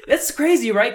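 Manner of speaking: high laughing disbelief. Real, not acted. Laughing remark.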